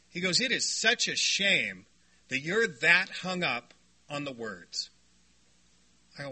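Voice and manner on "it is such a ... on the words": soft, slow and kind; gentle. Retold or imitated. Brother telling him gently it's a shame. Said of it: "he said it in a very nice religious way".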